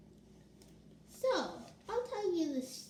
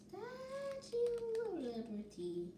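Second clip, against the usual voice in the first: 1 dramatic repeat; 9 semitones higher, 6 dB quieter than usual. Real, not acted. She repeats the phrase dramatically.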